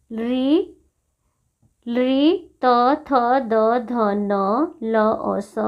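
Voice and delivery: "री, री, त, थ, द, ध, न, ल और स" recited singly off the teeth; dental articulation. Shown as a demonstration. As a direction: demonstrate "त, थ, द, ध, न" as separate dental sounds. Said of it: "दंत से उच्चारण होने वाले वर्ण".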